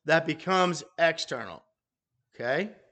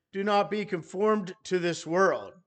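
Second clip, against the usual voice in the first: "do not" given the weight; stress on DO NOT; 2 semitones higher than usual. Shown as a demonstration. Preacher showing where we put the emphasis, stressing "do not". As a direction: lean on "do not", falling away to "world". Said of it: "to put the emphasis on".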